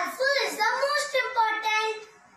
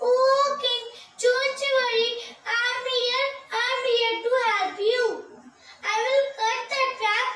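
high-pitched little mouse voice; eager helper mouse; 4 semitones higher than usual. Acted. Mouse come to free the trapped lion, high eager voice.

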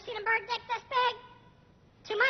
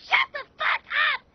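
despairing shout; 5 semitones higher, 3 dB louder than usual. Acted. Bird despairs, yelling at owner.

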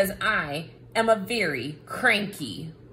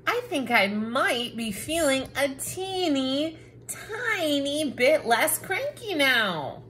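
giggly; 5 semitones higher than usual. Acted. Book softening, giggling.

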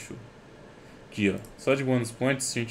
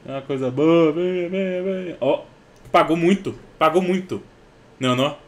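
higher, louder, thrilled shouting; excited; 7 semitones higher, 8 dB louder than usual. Real, not acted. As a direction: cheer the win as it lands. Case opening pays off.

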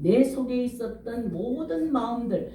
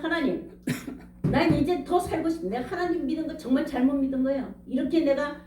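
raised, aggrieved questioning of God, half-acted; retold reproach; 3 semitones higher than usual. Preacher replaying his bitter questions to God, mild mock reproach. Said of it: "그 하나님이 계시다면".

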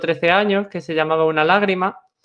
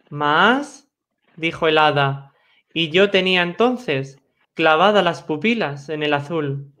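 poem recitation. Acted. Poet describing what lay behind the veil, measured recitation. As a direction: recite it in spaced phrases to a settled close.

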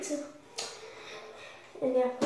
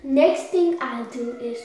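talking with a burning mouth; mouth on fire; 4 dB louder than usual. Real, not acted. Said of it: "The mouth is on fire".

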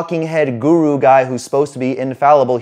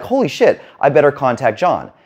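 mock amazed. Scrolling a coach's profile, he mock-gasps in amazement. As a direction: play it like a stunned viewer blown away. Himself reacting to impressive profile.

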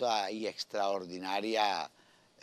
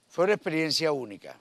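loud, fast, high burst of enthusiasm; excited; 7 semitones higher, 9 dB louder, faster than usual. Real, not acted. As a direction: exclaim it with delight. Emphatic repeat of praise.

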